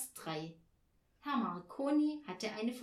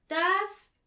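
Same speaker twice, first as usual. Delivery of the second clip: very slow, loud, high call; called in chorus; 8 semitones higher, 9 dB louder, much slower than usual. A narrator's reading. Both girls drilling Herr Marconi, loud and slow. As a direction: shout each word separately, pitched high. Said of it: "riefen sie im Chor".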